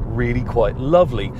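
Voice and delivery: lovely given a gentle lift and lean; stress on lovely. Shown as a demonstration. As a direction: lean warmly into the word lovely. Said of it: "I emphasize the word lovely".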